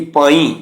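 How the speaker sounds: ਪਾਈ with a nasal ee; nasalised final vowel. Shown as a demonstration. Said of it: "ਬਿੰਦੀ ਉਚਾਰਨ ਹੋਣੀ ਹੈ ਬਿਹਾਰੀ ਉੱਪਰ". (ਪਾਈ ਦੀ ਬਿਹਾਰੀ ਨਾਸਕੀ ਬੋਲੋ)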